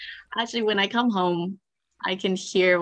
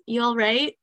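casual British "You all right?" rising at the end; British greeting; 4 semitones higher than usual. Retold or imitated. Lightly British "You all right?". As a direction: friend explains London greetings, lightly British. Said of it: "you don't actually ask".

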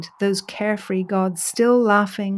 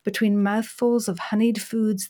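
ordinary delivery

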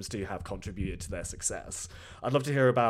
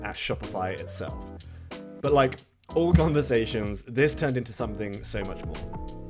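hoarse, sore-throat rasp; croaky voice. Real, not acted. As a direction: speak through a recovering sore throat. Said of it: "please excuse my croaky voice".

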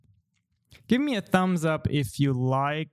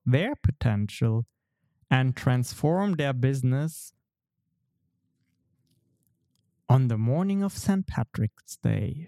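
storytelling voice. Acted. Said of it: "my best storytelling voice".

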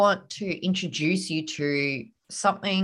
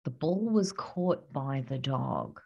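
passive example; 3 semitones lower, 6 dB quieter than usual. Shown as a demonstration. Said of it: "Here's the difference".

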